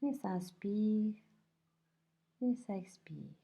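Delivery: unhurried body scan voice, leaving space between phrases; guided meditation. Acted. Teacher guiding listeners through a body scan, calm guided meditation.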